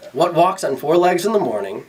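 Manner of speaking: mildly smug riddle-master. Acted. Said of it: "he asked smugly".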